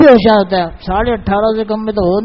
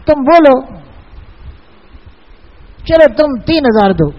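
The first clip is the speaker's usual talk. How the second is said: higher, pushy Pathan trader voice; Pathan seller accent; 5 semitones higher than usual. Retold or imitated. Pashtun carpet seller pressing the imam to name a price, in a Pathan accent. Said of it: "ہمارے پٹھان دوست".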